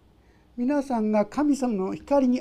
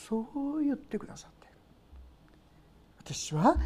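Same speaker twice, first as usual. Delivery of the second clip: hushed whisper; 3 semitones higher, 7 dB quieter than usual. Real, not acted. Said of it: "hushed before believer's reply".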